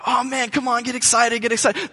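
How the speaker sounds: mock a desperate opener begging for energy; eager opening act. Mocking the opening act begging the crowd. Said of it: "He's like".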